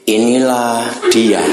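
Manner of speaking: low, slow, joyless INILAH DIA; unenthusiastic demo. Shown as a demonstration. Preacher mocks how Adam would never greet Eve, unenthusiastic. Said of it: "Nggak mungkin ada orang berkata kalimat ini".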